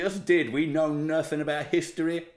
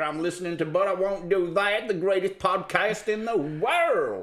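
mock CB trucker; 4 semitones higher, slower than usual. Acts out a CB radio exchange.

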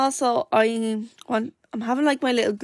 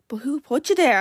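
higher, half-shouted retold challenge; mildly aggressive; 5 semitones higher than usual. Lad challenging her at the coffee stand, mildly aggressive. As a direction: imitate a pushy demand, lightly. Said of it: "being kind of aggressive".

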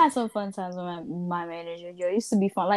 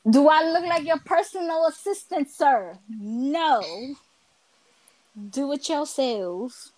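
sassy retort; 3 semitones higher, slower than usual. Retold or imitated. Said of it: "I'm like".

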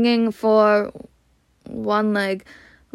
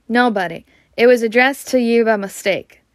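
sharp. Acted. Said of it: "said Uncle Vernon sharply".

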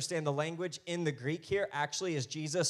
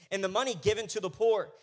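mildly indignant complaint, higher and louder; raised, scolding objection; 6 semitones higher, 7 dB louder than usual. Acted. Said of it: "indignantly remarking to one another".

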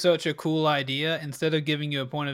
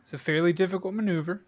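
hushed golf commentator, quick; golf announcer voice; 3 semitones higher, faster than usual. Pretend. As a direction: narrate it like a golf broadcast. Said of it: "your golf announcer voice".

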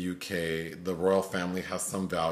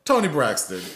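higher, louder list of names, mock sobbing; tearful diva roll call; 6 semitones higher, 4 dB louder than usual. Retelling the crying woman in the video, mock wailing list. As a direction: wail out each diva's name in hammed-up grief. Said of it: "She's naming all the black divas".

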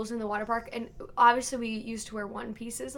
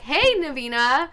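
pleading, higher-pitched video message; drawn-out, louder mock plea to a match; Ben Affleck; 6 semitones higher, 6 dB louder, slower than usual. Co-host imitating a spurned actor's video to his match, hammed-up pleading. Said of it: "he sent her a video that was like".

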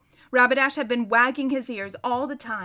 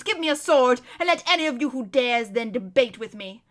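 raised, loud demand for a sword; defiant challenge; 5 dB louder than usual. Acted. Prisoner daring the lords to fight, defiant. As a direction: throw down the challenge.

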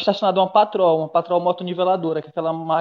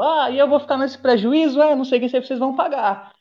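retold angry driver; 4 semitones higher than usual. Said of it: "o maluco veio bravo pra porra".

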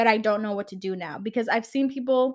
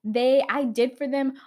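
mildly angry imitation, a little higher; angry quote; 4 semitones higher, 3 dB louder than usual. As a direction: act out someone getting mad at an ex. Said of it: "and then they get angry".

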